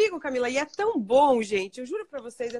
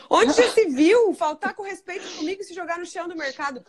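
outraged scolding, a bit louder and higher; mock indignant parent; 5 semitones higher, 4 dB louder than usual. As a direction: play the offended authoritarian parent. Pai indignado imitado. (pai autoritário indignado, em tom de deboche)

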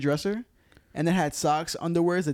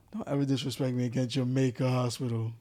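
deep voice; 2 semitones lower than usual. Acted. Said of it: "Why you have to deep voice like that?".

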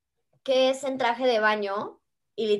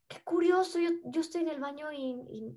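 1 sly whisper; 4 semitones higher, 5 dB quieter than usual. Retold or imitated. Dad on phone, catching her lie.

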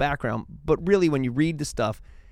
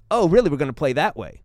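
mock indignation; 6 dB louder than usual. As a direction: throw it back like an offended bishop. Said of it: "So Cyril's like".

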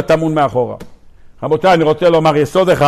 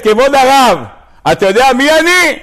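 high-pitched mock outcry; shouty indignant woman; 7 semitones higher than usual. Woman challenges the rabbi, high indignant mock outcry. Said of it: "הגברת הזאת צעקנית".

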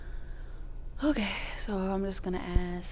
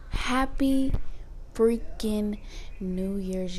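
excited; 3 semitones higher, 3 dB louder, slower than usual. Real, not acted. Excited New Year greeting.

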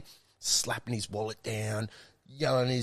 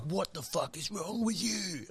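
higher, slower mock wife voice; imitating missus; 8 semitones higher, 7 dB quieter, slower than usual. Missus scolding him for the window, higher slow mock voice. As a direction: play the angry missus, pitched up. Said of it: "Me missus was like".

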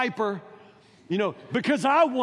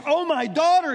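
mock anguished cry, voice raised; cried out; 6 semitones higher, 5 dB louder than usual. Preacher mimics Jephthah crying out to his daughter, mock anguish. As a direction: play the father's wail, half-mocking. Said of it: "he cried out".

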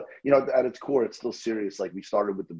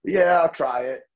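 eager customer; 9 semitones higher, 4 dB louder, slower than usual. Retold or imitated. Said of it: "So I'll say".

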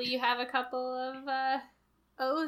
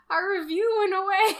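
whiny fake sob, pitched up; mock crying; 7 semitones higher, 6 dB louder than usual. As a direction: wail it like a tiny tragedy. Retold tweet, mock crying.

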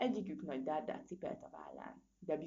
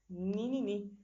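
loud, raised growly notice; growled crocodile; 4 semitones higher, 6 dB louder, slower than usual. A narrator's reading. Crocodile spots small prey in its path, growling. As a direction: growl it as the prey comes into view.

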